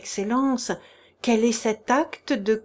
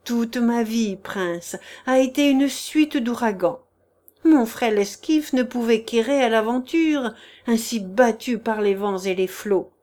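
desperate plea. Acted. Chichikov begs the prince for mercy, raised and desperate. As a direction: beg him with theatrical self-pity. Chichikov's tearful pleading confession.

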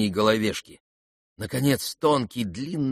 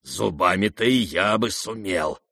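grinding growl. Acted. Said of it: "проскрежетал кулачный господин".

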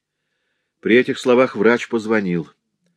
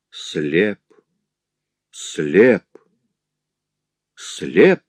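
growing, louder repeated word; dazed then louder; grief-stricken repetition; 4 dB louder, much slower than usual. Acted. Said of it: "твердил злодей, подавленный горем".

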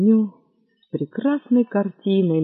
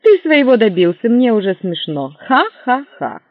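sarcastic mock laugh; 4 semitones higher, 5 dB louder than usual.

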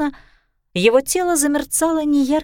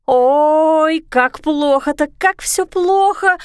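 despairing; 5 semitones higher, 3 dB louder, much slower than usual. Acted. Sisu pacing in despair.

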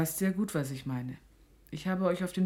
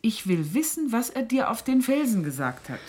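louder, insisting on an answer; rising anger; 3 semitones higher, 4 dB louder than usual. Acted. Mother insisting her daughter tell what was said on the rocks, angry. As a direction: push harder as patience breaks.

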